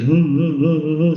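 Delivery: mock little-kid sobs, "hu-hu-hu"; imitated childlike crying. Man retelling how he cried behind the house, mock childlike sobbing. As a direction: imitate a child's boo-hoo crying, lightly. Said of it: "Saya nangis kayak anak kecil".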